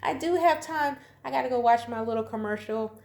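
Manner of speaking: half-laughing, catching yourself; lightly hammed-up excited aside; sudden realization. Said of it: "I was like".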